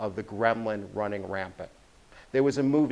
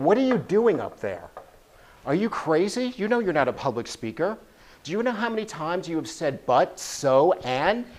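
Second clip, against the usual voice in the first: raised, nagging inner critic voice; gremlin voice; 5 semitones higher than usual. Acted. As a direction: nag yourself like a mocking gremlin. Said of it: "It's saying".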